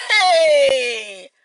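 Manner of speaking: sudden loud cry into the corridor; battle shout. Retold or imitated. Grandma rushing thieves in the corridor, shouting. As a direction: yell it like charging into a fight.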